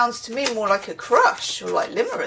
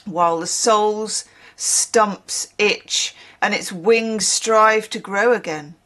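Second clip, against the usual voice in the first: story reading. Acted. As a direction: savour each phrase as you read aloud. Reads a passage aloud.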